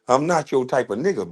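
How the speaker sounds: repeating the line through a laugh; chuckling on the words. Real, not acted.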